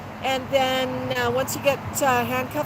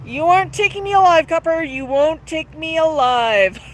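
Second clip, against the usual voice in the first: louder, fast hammed-up gangster squawk; mock parrot scream; 4 semitones higher, 6 dB louder than usual. Reading a viewer's joke, parrot defying police in a mock scream. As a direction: ham up a cornered parrot yelling at cops. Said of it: "The parrot screams".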